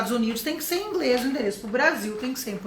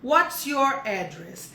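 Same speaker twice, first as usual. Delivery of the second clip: slow, even repeat; slow model repeat; much slower than usual. Shown as a demonstration. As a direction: say it again slowly and plainly. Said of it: "esse aqui é interessante".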